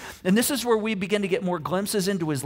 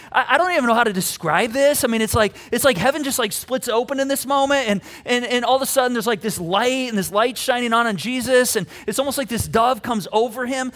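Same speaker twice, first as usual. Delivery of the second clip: higher, louder, tumbling excitement; amazed eyewitness; 5 semitones higher, 5 dB louder than usual. Acted. Matthew struggling to describe heaven opening, excited and amazed. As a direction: pour it out like an overwhelmed witness.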